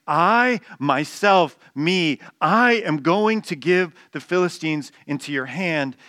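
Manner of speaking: stack up "I, myself, me" with force; God's own voice leaning on "I"; emphatic I. Shown as a demonstration. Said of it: "God is saying".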